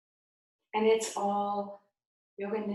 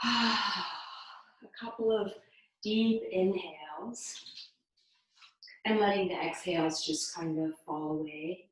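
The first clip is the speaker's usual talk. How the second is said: guided meditation. Real, not acted. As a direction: lead them gently, with long pauses. Guiding the breath.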